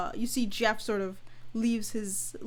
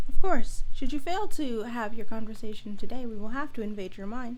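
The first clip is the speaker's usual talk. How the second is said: corporate mind voice; 5 dB louder than usual. Acted. GM voicing corporate mind-invader.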